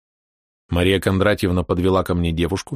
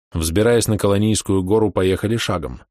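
plain reading voice

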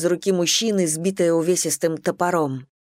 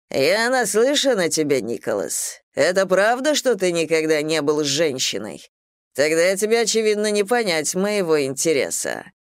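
smirking. Acted. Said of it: "вдруг с ухмылкой произнёс дикарь".

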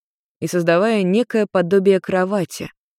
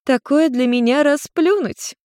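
high, slow, smiling witch voice; smiling witch mother; 8 semitones higher than usual. Acted. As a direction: purr it like a proud tipsy witch. Witch boasting.

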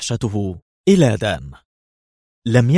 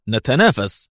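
scornful echo; 3 semitones higher than usual. A narrator's reading. The ambassador mocks the American's claim, scornful echo. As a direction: repeat نتنافس as a disbelieving scoff. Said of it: "قال ليفي مستنكرا".

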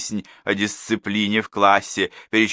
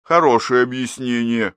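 dry ironic remark with a snort; mock her reasoning; 4 semitones higher, 4 dB louder than usual. A narrator's reading. Major mocks the teacher's answer, dry irony. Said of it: "хмыкнул майор".

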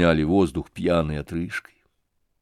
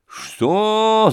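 high outraged roar; a thug's furious roar; 12 semitones higher than usual. Acted. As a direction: bellow it in disbelief. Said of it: "заревел Гундосый".

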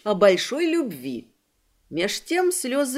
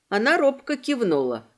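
plain reading voice

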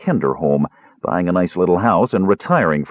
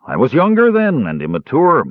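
lofty. Acted. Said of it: "Caramon said loftily".

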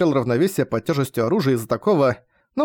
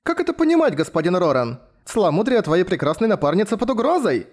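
much higher, indignant female voice; displeased woman's voice; 5 semitones higher than usual. Acted. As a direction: play the offended partner. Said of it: "недовольный голос Ляпис".

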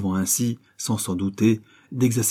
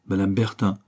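hypocritical query. Acted. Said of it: "avec l'hypocrisie d'un roué".

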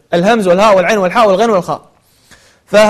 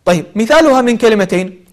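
ordinary delivery

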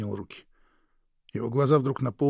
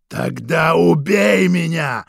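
much higher, much louder, slow hoarse scream; hoarse yell; 7 semitones higher, 13 dB louder, much slower than usual. Acted. Krik screaming at his brother to shoot him. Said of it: "хрипло завопил Крик".

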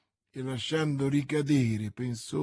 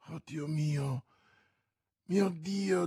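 slow, drawn-out plaintive exclamation; anxious dread; 2 semitones higher, slower than usual. Acted. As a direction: sigh it out, fearing bad news. Bonacieux fears bad news arriving.

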